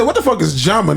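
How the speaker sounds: Jamun said with an English j; Jamun, Spanish j read as English. Retold or imitated. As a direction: say Jamun with j as in jam. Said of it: "that's a J".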